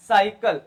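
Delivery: साइकिल opening on an S sound; soft C. Shown as a demonstration. Teacher modelling C before Y, साइकिल with an S sound. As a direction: say the first C of साइकिल as S. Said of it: "उसी प्रकार से".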